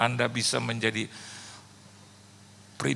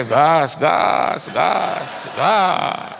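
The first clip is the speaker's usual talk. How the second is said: louder, hurried urging; preacher tells his driver to speed away, urgently; urgent mock command; 5 dB louder, much slower than usual.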